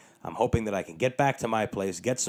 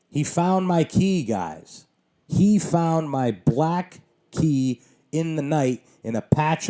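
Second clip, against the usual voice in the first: higher, louder, slow, stunned delight; amazed exclaiming; 6 semitones higher, 5 dB louder, slower than usual. Real, not acted. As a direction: sell the miracle to the audience, loud and slow. Triumphant about the found key.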